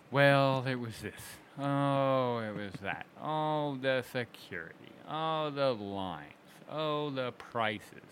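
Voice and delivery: lightly voiced grumbling fans, drawn out slowly at the end; mock complainers. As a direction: mimic whiny attendees listing gripes. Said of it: "about people complaining about".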